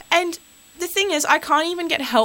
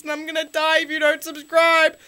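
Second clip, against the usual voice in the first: hammed-up sobbing plea, quick; mock crying plea; 3 semitones higher than usual. Host begs listeners to subscribe, mock crying. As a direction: whimper like you're dying, jokingly.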